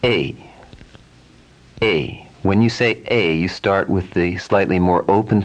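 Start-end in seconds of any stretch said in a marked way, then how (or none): 0.0-0.3 whispered. Shown as a demonstration. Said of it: "when you pronounce the letter A".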